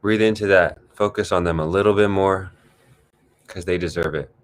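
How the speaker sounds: measured meditation voice with long pauses; guided meditation. Acted. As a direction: guide them gently into the breath. Leads a guided breathing exercise.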